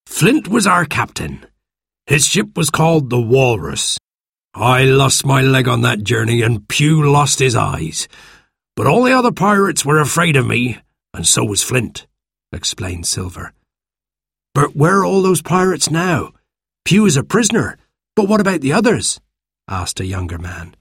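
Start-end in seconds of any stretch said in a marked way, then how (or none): 0.1-12.1 put-on gruff old pirate; lightly voiced old sea cook. Narrator voices pirate Silver. 14.5-19.2 put-on higher, eager young sailor; lightly voiced young man.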